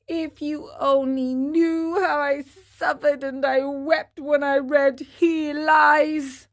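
put-on a touch of sorrow in a boyish voice; lightly voiced Pinocchio, grieving.

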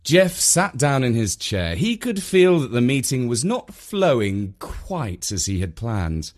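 usual speaking voice

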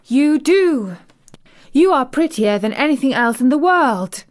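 high, loud and thrilled; delighted. Acted. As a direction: gush over the robin with joy. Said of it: "she cried out".

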